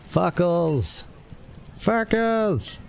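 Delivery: high squeaky alarmed yelp; panicked high cry. Pretend. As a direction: shriek it in cartoon panic.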